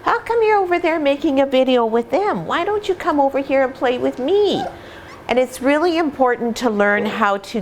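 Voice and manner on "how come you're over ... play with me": higher, lightly whiny puppy asking to play; pleading puppy voice. Retold or imitated. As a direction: voice the lonely puppy calling you over. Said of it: "All they're doing is saying".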